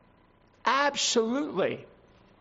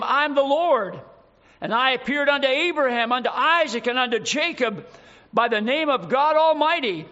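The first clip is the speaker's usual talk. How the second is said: rising pulpit voice, louder, proclaiming; preaching; 3 semitones higher, 3 dB louder than usual. Acted. Preacher proclaiming God's words to Moses, full voice. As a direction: declare it like thunder from the pulpit.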